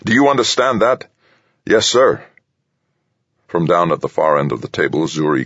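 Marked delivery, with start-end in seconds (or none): 0.1-1.1 high-pitched, forceful angry command; growled order. A narrator's reading. General demanding the colonel on this frequency right away, growling. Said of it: "then growled". 1.7-2.2 put-on troubled young captain. A narrator's reading. Young captain answers the growling general.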